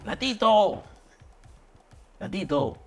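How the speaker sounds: calling out. Retold or imitated. Sent to offer the man tickets, calling out. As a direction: hail him from a little way off.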